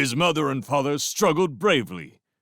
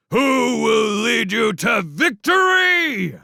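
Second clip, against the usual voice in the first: much higher, loud and slow war cry; rallying shout; 8 dB louder, slower than usual. Acted. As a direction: stretch the call to rouse the horde. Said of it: "As Clooney exhorted them".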